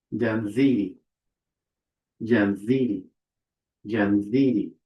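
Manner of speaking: Janziri with ndz sound; pronunciation demo. Shown as a demonstration. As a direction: say Janziri with a voiced z after n. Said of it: "is pronounced".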